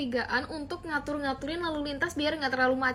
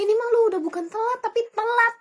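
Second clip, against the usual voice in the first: second telat stretched and punched higher; emphatic teasing; 5 semitones higher, 5 dB louder than usual. Acted. Friend teasing the Japanese girl, stressing telat. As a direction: lean hard on the last telat. Friend mocking extreme lateness.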